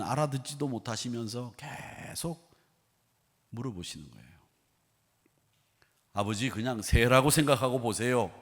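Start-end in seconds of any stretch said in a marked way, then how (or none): 6.1-8.3 mildly blunt brush-off; brusque. Acted. Son brushing off his father, understated brusque. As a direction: close the matter with a touch of impatience. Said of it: "퉁명스럽게 대답을 하고 마쳤습니다".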